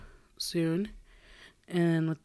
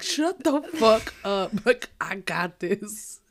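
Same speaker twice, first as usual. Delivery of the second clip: mock annoyed snap; 3 semitones higher, much slower than usual. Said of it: "I'm just like".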